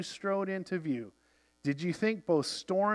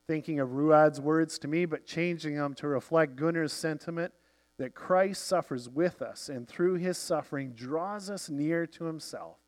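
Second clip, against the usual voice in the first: ordinary delivery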